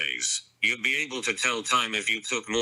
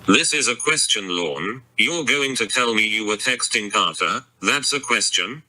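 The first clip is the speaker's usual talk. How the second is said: louder, sarcastic throw-back; angry retort; 4 dB louder than usual. Acted. Jamie mocking her boyfriend's question, angry and raised. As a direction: fling his words back at him, raised.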